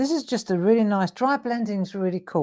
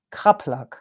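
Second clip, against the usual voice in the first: KRAPLAK in a mock German accent, lower; 5 semitones lower than usual. Shown as a demonstration. Artist trying the pigment name on viewers, mock German accent. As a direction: say "Kraplak" the German way, vowels like "kup-luck". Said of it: "say it in a German accent".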